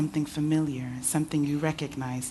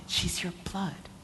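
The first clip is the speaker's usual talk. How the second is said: broken sob; 4 semitones higher, 5 dB quieter than usual. Acted.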